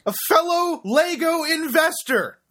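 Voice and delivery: high, slow mocking exclamation; mocking disbelief. Real, not acted. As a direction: repeat the phrase in scornful disbelief. Mocking the listing's phrase.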